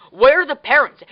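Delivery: half-mocking the guy's alarm; alarmed retold cry. Quoting a boat guy in the movie, mock alarmed. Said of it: "the guy on the boat says".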